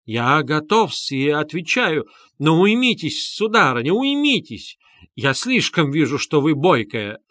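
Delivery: lightly voiced fussy official, flustered; a touch of a pompous man backing off; hint of a flustered gentleman; flustered muttering. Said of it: "бормотал Лужин".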